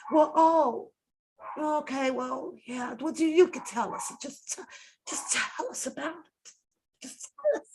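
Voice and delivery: soft, hesitant imitation of a concerned interviewer; mock passionate caring talk. Mimicking interviewers suddenly caring about a guest, mock tender and hushed. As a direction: gush gently with put-on concern, nearly whispering at times. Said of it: "this passionate, caring talk".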